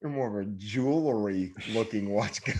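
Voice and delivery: repeating a friend's jab about the watch, mocking; mocking echo. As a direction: parrot it back in a teasing put-on voice. Mocking friend's remark back.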